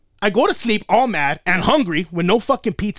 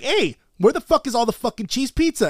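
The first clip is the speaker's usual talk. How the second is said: higher-pitched retold annoyed demand; pissed-off demand; 6 semitones higher than usual. Kid confronting everyone over the pizza, pissed off. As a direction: replay an indignant kid's demand. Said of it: "pissing me off".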